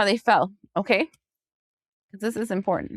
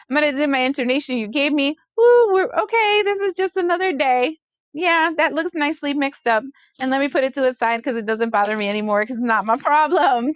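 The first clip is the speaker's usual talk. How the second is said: breezy carefree; 3 semitones higher than usual. Retold or imitated. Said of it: "you're gonna be like".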